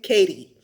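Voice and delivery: Katy as "KAY-dee"; American pronunciation. Shown as a demonstration. Naming the Texas city, Katy as American "kay-dee". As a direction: soften the T in Katy to a d. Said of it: "T is missing".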